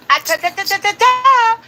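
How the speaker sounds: rapid staccato "ta-ta-ta", climbing in pitch; interrupting tut-tut noise. Real, not acted. Host cutting off viewers' objection, rising staccato noise. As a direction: shush them with rising stuttered syllables.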